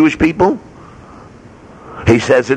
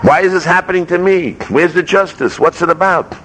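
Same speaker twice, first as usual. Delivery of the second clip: higher-pitched, mildly plaintive protest; raised pitch, demanding answers; aggrieved questioning; 6 semitones higher than usual. Acted. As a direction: voice a sufferer's bewildered complaint. Voicing sufferers questioning God's justice.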